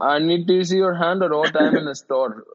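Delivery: joking Indian shopkeeper ordering; light Indian accent; mock Indian accent. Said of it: "pretty good Indian accent".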